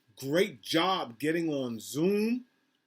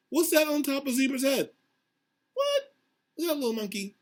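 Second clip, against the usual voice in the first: tell; 10 semitones higher, faster than usual. Acted. Teacher marvels at the picture.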